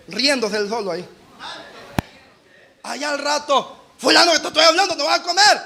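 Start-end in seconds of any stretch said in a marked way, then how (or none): 4.0-5.6 higher, louder insistent calling; mock exasperated call to dinner; impatient call.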